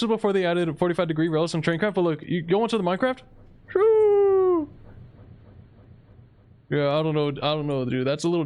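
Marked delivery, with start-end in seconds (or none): 3.7-4.7 a very high, loud yelp of "Shoo!"; sudden shout. Real, not acted. Shooing villagers away from the train with a high, loud shout. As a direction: scare them off with one sharp high yell.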